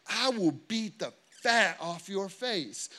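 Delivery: hammed-up tough-guy threat; mock loud threat. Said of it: "this is what I say, really loud".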